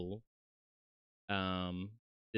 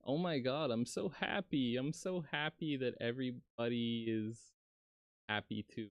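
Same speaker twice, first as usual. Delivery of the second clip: higher, gushing happy voice; mock happy; 4 semitones higher than usual. Showing the happy toggle, a higher gushing voice. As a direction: act overjoyed for the happy toggle. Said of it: "there's happy".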